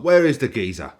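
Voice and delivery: loud Cockney geezer call; Danny Dyer impression. Reaction streamer quoting a gangster film, loud Cockney. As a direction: ask it like a London hard man. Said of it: "To quote Danny Dyer".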